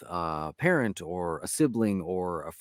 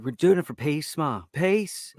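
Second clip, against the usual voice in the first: quick Northern Irish line, pitch lifting on the second Peace; a light Northern Irish accent riffing on Derry Girls; 7 semitones higher, 3 dB louder than usual. Retold or imitated. Joe shows his co-host the North Irish sound, in a Northern Irish accent. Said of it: "to get that proper North Irish sound going".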